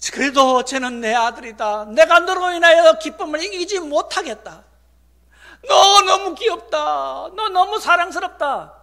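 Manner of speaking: loud, high, gushing declaration; doting proud father. Acted. God to a flawed child, loudly doting. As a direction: proclaim adoring love at full voice.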